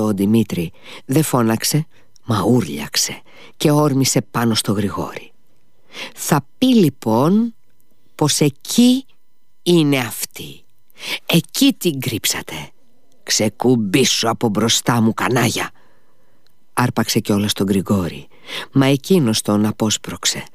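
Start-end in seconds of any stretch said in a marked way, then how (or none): 6.1-15.7 furious son hunting her; angry outburst. Acted. Dmitri bursts in enraged. (οργισμένο ξέσπασμα)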